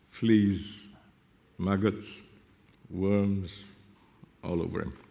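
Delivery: soft, grave appeal, each item left to fall; hushed pity. Real, not acted.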